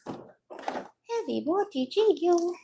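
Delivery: drawn-out playful. Pretend. Mulling which gel to use, slow teasing drawl. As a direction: stretch the words out dreamily. Choosing gel, toying with phrase.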